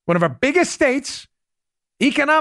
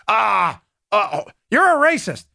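mock accuser. Mocking a liberal's retort.

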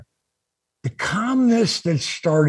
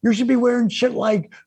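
higher, pushing hard; heated lecture; 5 semitones higher than usual. Retold or imitated. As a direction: hammer the point home to a friend. Lecturing friend, retold heatedly.

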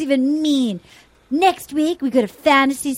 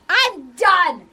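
mock outburst; slower than usual. Acting his storming out.

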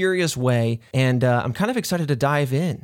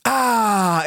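deep relieved breath in; 5 semitones higher, 3 dB louder than usual. Pretend. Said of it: "go outside and go".

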